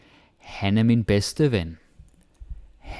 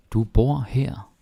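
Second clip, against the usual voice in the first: Du bor her said slowly with bor stressed; slow, clear model; 3 semitones higher, slower than usual. Shown as a demonstration. Teacher modelling a slow sentence for the class. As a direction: spell it out slowly for learners.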